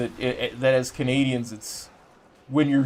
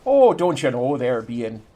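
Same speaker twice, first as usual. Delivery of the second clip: Minnesota accent. Shown as a demonstration. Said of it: "It's a Minnesota accent".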